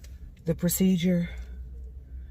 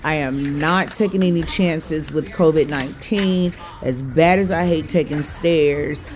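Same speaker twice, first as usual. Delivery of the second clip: loud; 7 dB louder than usual. Real, not acted. Loud echoing stairwell story.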